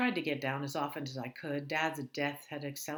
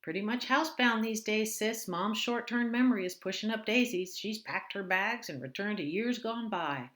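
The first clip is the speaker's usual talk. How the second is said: higher, louder voice for the quirky sister; Alice's odd flat-toned voice; 5 semitones higher, 5 dB louder than usual. Acted. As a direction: play Alice, stilted and chirpy.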